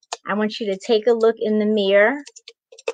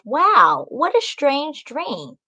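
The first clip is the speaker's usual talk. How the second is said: amused disbelief; 8 semitones higher than usual. A narrator's reading. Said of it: "Macy says to herself".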